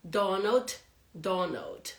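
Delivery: "Donald" ending on a held, unreleased D; teacher modelling "Donald" with a stopped D; stopped final D. Shown as a demonstration. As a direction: stop the D at the end of "Donald". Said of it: "you just stop in the D".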